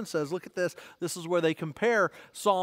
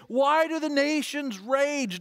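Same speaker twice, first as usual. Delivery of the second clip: mild imitated plea, higher and drawn out; crying out to God; 4 semitones higher, slower than usual. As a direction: plead slowly upward as the psalmist. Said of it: "David is crying out to God".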